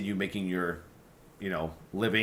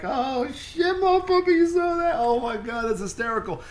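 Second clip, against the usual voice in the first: much higher and louder, squealing with glee at the screen; excited fan reaction; 5 dB louder than usual. Retold or imitated. Warcraft fan laughing along in the theater, high excited squeal. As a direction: gush like a fan catching an Easter egg.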